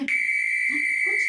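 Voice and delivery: susurra lento, casi sin voz; susurro. Acted. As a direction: pide silencio en un susurro. Pide silencio para oír el sonido. (a los niños, les pide escuchar en susurro)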